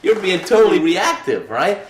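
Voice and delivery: high, loud incredulous coach; worked-up coach scolding him; imitating coach going nuts. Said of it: "And he went nuts".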